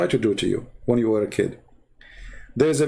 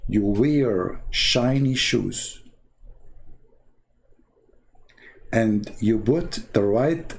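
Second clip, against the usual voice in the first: mock instruction; 4 semitones lower, slower than usual. Mocking the confidence advice.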